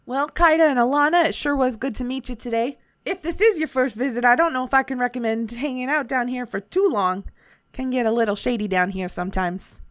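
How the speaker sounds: put-on a light Southern shopkeeper accent. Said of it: "It just continues to go Southern".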